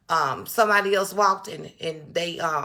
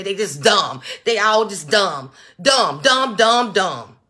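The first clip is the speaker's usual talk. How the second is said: loud, hammering each dumb; real anger, spitting the words out; angry; 4 dB louder than usual. Real, not acted. Venting to her livestream viewers, loud and furious. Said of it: "'cause I'm mad right now".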